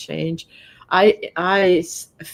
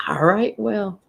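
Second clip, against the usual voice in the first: whispered; 3 semitones higher than usual. Real, not acted. Whispered aside.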